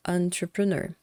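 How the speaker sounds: entrepreneur said clearly as the model; model word. Shown as a demonstration. Teacher shows students the right pronunciation, clearly. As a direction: give entrepreneur its clean English sound. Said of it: "essa é a pronúncia de".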